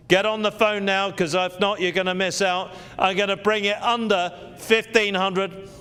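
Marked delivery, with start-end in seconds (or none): 3.0-5.7 excited price drop. Acted.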